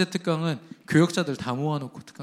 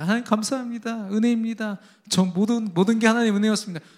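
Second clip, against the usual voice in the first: grateful prayer; 6 semitones higher than usual. Retold or imitated. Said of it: "사랑을 하나님께 고백합니다".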